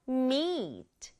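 Meat with a long stretched ee vowel; Meat, holding the ee sound long. Shown as a demonstration. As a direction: draw out the ee in Meat. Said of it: "이 하고 소리 길게 내주세요".

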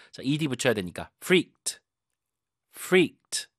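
ordinary talk, nothing marked

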